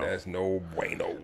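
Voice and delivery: soft mock-grave whisper; whispered echo. Co-host echoing the host on a losing record, whispered. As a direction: whisper it back in sympathy. Echoes the hushed reaction.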